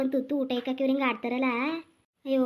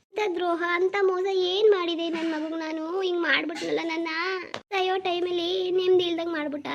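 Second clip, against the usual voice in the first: put-on old mother's lament; 4 semitones higher than usual. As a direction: mourn the son's betrayal.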